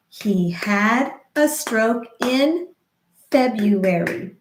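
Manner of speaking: slow, syllable by syllable; slow rhythmic demo. Shown as a demonstration. Speech therapist modeling a sentence slowly, rhythmic. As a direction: model it slowly for stroke survivors. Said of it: "We could say that sentence again".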